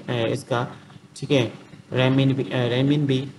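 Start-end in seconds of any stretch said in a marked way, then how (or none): 1.9-3.3 "रेमिनबी" attempted twice with an "uh" between; unsure pronunciation. Real, not acted. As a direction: say "रेमिनबी", hesitate, then try it over. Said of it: "pronunciation भी सही से नहीं आ रही".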